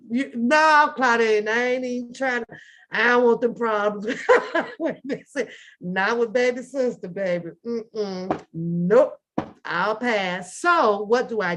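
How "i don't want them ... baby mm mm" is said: ordinary delivery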